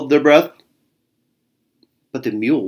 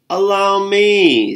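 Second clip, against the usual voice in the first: grand horse voice; 8 semitones higher, 3 dB louder, slower than usual. Acted. Plow horse arrives.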